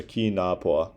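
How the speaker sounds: "Ki Na Po" as separate open syllables; "Ki Na Po" with no paired consonants; broken into syllables. Shown as a demonstration. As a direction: sound out "Ki Na Po" syllable by syllable. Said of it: "break up paired consonants".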